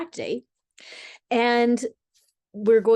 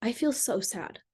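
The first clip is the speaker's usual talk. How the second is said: softer, soft-spoken and hurt; vulnerable sad; 5 dB quieter than usual. Shown as a demonstration. Wife telling husband her feelings, softly sad. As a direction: let the sadness show quietly. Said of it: "you feel your feelings and you just say".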